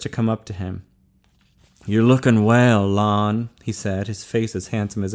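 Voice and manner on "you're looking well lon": slow greeting, lightly voiced cellmate; friendly cellmate. A narrator's reading. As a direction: greet a pal slowly, lightly in character. Cellmate Meat greets Lon.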